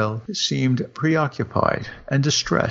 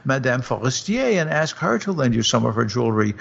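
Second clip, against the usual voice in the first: higher, teasing husband, lightly voiced; a hint of an amused husband; husband cries out; 6 semitones higher than usual. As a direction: toss it off high and quick. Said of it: "her husband cried".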